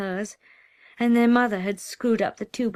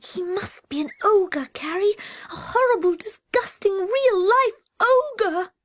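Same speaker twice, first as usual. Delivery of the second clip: whispered; 13 semitones higher, 6 dB louder than usual. Acted. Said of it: "He whispered into her ear".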